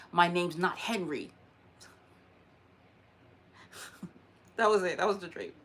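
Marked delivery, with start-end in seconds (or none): 0.1-1.3 slow, lightly voiced ghost correcting her; mild stern man voice. Ghost man in the dream correcting his name, slow and firm. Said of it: "a man ran up to her and said".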